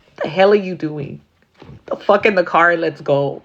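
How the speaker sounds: pushy call to get in the car; urgent friend. Retold or imitated. Friend urging her into the car at night, pushy. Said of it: "I'd be the friend".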